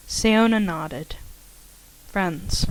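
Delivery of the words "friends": soft, murmured to herself; hushed echo of the word; under her breath. A narrator's reading. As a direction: say it quietly, tasting the word. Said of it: "she repeated under her breath".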